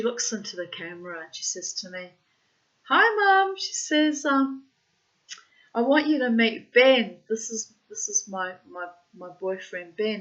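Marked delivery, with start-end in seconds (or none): 2.8-10.2 high, loud mock hello settling toward usual voice; acted bright greeting. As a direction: play the daughter announcing a boyfriend, starting high and loud. Daughter's video introduction, acted.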